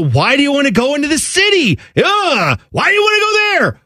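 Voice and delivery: high, fast, scoffing Jersey local; mock disdain. Jersey local scoffing at the city, high and disdainful. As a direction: sneer at the city, rising high. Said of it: "they'd go".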